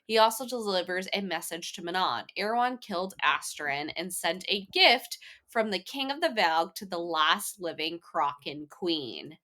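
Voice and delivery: reading a chapter recap aloud; steady podcast recap narration; summary read. Acted.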